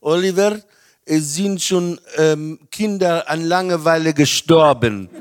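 light imitation of a hard Russian accent; a hint of stern Russian-accented mother; mother scolding her bored son in a hard Russian accent. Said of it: "mit diesem harten russischen Akzent gesagt".

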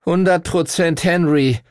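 pained. A narrator's reading. Arthur naming his friend, pained. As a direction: admit it as if it hurts. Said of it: "sagte Arthur gequält".

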